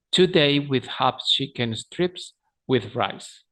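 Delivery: slowly and clearly for students; slow model line; slow repeat. Shown as a demonstration. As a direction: spell it out slowly.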